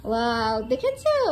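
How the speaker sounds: excited. Real, not acted. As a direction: gasp it out, amazed. Excited reveal to toddler.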